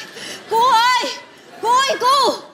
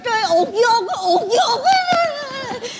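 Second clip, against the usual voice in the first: slow drawn-out wail; crying shout; much slower than usual. Acted.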